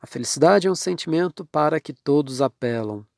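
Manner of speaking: fast run through the wrong sentence; the wrong way, said quickly as a throwaway example; wrong version, rattled off. Shown as a demonstration. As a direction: rush through the incorrect "para que" version. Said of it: "não deveria ser para que".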